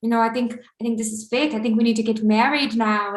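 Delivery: lightly imitated Albanian accent. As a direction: woo her with a hint of Albanian accent. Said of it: "I'm just trying to do his cute accent".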